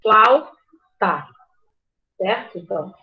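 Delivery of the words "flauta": "Flauta" split in two, flau - ta; flau, pause, ta; syllable by syllable. Shown as a demonstration. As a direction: break "Flauta" after "flau" with a clear pause. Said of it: "primeiro separou a sílaba".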